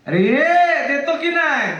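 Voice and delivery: teacher playing a mother mildly shouting at her child; mother scolding. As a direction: yell at the child who won't fetch water. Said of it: "आई जेव्हा ओरडते".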